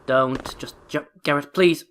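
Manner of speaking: halting plea rising to a loud "please"; exasperated pleading. Real, not acted. Player begging Garrett not to glitch, exasperated pleading.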